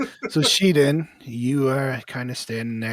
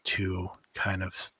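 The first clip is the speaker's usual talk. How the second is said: story narration. A narrator's reading. Game master describing the vision to the players, steady narration. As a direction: paint the horror evenly for the players.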